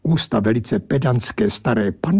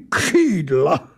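irritated exclamation; 3 semitones higher than usual. Acted. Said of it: "zvolal značně popuzen".

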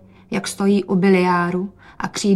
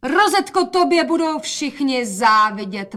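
higher, louder, slow admiring call; 6 semitones higher, 4 dB louder than usual. Acted. Mother calls out admiring her daughter. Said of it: "volala matka".

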